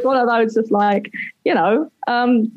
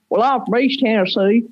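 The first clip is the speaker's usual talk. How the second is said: put-on Tennessee twang; joking Tennessee accent. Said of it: "by your strong Tennessee accent".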